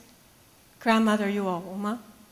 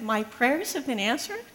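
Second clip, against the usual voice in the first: softer, questioning, rising on prayers; stammered disbelief; 3 dB quieter than usual. Retold or imitated. Stunned pastor repeating the grandmother's words, stammering question. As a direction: repeat it back unsure you heard right. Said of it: "I s-, stammered".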